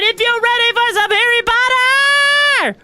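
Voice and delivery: put-on high, quick stereotypical German accent; a quick burst of cartoon German; lightly hammed German accent; mock German accent. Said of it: "I can only do the stereotypical one".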